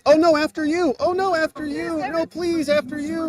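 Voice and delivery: high, polite after-you voice; overly polite. Retold or imitated. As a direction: mimic someone insisting you go first. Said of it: "everybody's like".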